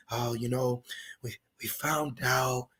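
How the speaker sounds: soft, low, sly whispered confidence; slow, hushed and smooth, like sharing a secret. Retold or imitated. The devil sweet-talking you, a slow low whisper. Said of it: "he's gonna whisper it to you".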